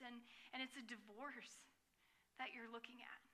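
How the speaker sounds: hushed soft whisper. Real, not acted. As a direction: let it fall to a whisper. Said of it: "unvoiced whisper".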